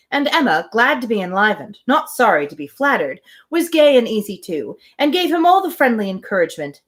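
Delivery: even, measured reading of a classic novel; story narration. Acted. Host reading Emma aloud to her livestream, calm narration. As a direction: read it like an audiobook, steady and clear.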